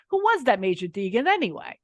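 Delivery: put-on thick New York accent, stress on was. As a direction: say it like a cranky New Yorker. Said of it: "in a very New York accent".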